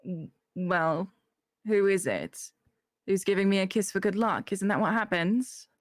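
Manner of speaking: put-on character accent; put-on accent, asking the group; lightly accented character voice; Gemma. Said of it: "I didn't do the accent".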